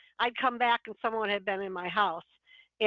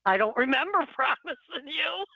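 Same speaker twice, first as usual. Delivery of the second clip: incredulous; amused disbelief, half laughing; talking back to the Lord, surprised. Retold or imitated. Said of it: "And I was like".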